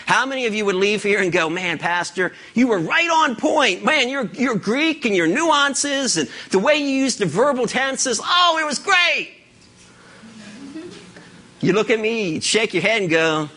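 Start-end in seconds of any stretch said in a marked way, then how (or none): 1.5-13.1 a hint of a gushing churchgoer, climbing higher toward the end; gushing congregant. Pastor voicing a churchgoer praising his Greek sermon, mock gushing. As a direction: play it as a starstruck listener overdoing the praise.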